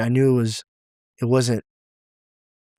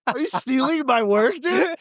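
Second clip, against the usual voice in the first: mock indignant host; 12 semitones higher than usual. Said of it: "You're like".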